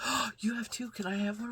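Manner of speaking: put-on high, eager kid voice begging for one; imitating little son. To mom about her two neck fans, a high eager kid voice. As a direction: play a small boy who wants a fan.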